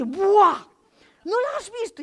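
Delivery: high, loud, disbelieving buah; can't believe she missed it; incredulous teen. Retold or imitated. Teenage boy to the storyteller, high incredulous buah.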